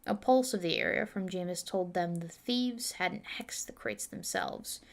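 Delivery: steady storytelling read; story narration. Acted. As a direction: read the chapter like an audiobook. Reads her fantasy novel aloud.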